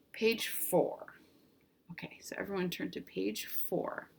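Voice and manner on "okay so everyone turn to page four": whisper. Real, not acted. Teacher aside to class.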